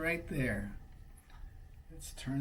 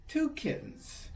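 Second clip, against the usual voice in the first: whisper; 13 semitones higher than usual. Real, not acted. Pointing out picture to child.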